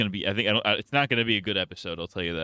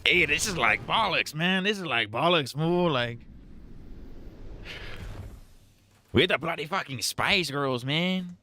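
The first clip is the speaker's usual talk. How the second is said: higher, hammed-up Cholo gangster voice, fool and man tacked on; mock Cholo accent; 8 semitones higher than usual. Joking about Butcher in the finale, mock Cholo accent. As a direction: play a cartoon Cholo tough guy with a lilt. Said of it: "but he talks like a Cholo".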